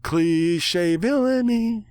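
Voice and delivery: slow, high, hammed-up sneer; mock villain voice. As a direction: narrator mocks the nightmare's cliché, slow high ham.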